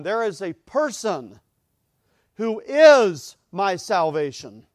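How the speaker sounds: slow and loud, building, preacher's fire; fervent preaching. Acted. Preacher proclaiming Christ to the congregation, fervent and loud. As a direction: proclaim it from the pulpit.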